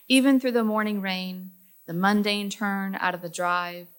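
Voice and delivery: measured, understated poem delivery; poetry reading. Acted. Reading a friend's poem about a life lost, understated poetry reading. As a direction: read it line by line, easing down at each line's end.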